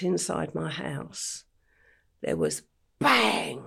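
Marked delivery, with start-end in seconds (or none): 3.0-3.6 imitated bang, punched out suddenly; loud bang. Guest retelling the attack inside her house, imitated loud bang. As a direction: hit it hard like a gunshot. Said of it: "really loud bang".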